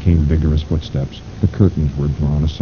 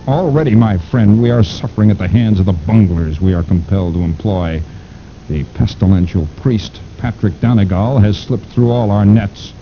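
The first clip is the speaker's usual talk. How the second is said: sinister mastermind voice; 3 semitones higher than usual. Acted. Fu Manchu complains of bunglers.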